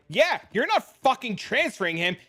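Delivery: mom refusing. Retold or imitated. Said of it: "my mom was like".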